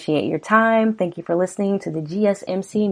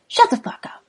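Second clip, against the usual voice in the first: whispered threat. Acted. Threat hissed in the scene.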